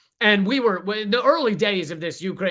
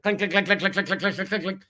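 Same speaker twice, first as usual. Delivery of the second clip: mock clicking. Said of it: "starts making clicking noises".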